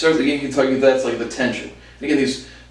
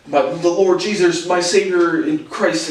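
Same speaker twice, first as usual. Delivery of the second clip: slow, slightly raised mock-devout voice; pious uncle; 4 semitones higher, slower than usual. Mimics uncle's pious talk.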